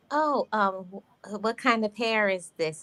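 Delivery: mildly sneering, slowed on horse hair; a light mock of a snooty questioner; lightly voiced condescending coworker asking about hair. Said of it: "in a condescending way".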